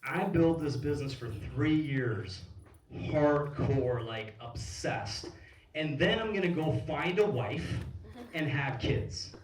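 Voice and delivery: slow, emphatic stage proclamation, mildly acted; confident retold declaration. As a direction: declare it deliberately, imitating a confident speaker. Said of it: "he was so confident".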